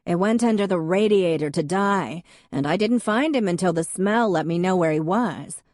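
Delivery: booming voice. Acted. Lorena telling the mourners about her cat, booming. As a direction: boom it across the room. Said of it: "in her booming voice".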